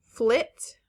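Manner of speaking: flit with a short, clipped I. Shown as a demonstration. Teacher contrasting short I for the class, crisp. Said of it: "Short I".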